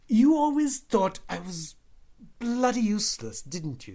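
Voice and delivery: high, loud and bitterly accusing; harsh, bitter accusation. A narrator's reading. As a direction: hurl a bitter accusation at your brother. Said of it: "In a harsh, bitter voice, he started accusing me".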